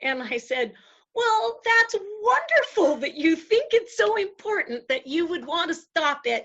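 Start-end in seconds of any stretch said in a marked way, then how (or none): 1.2-6.4 high-pitched, sugary praise; effusive delight. Retold or imitated. Woman disarming the devil with praise, high and gushing. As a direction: gush as if thrilled for them.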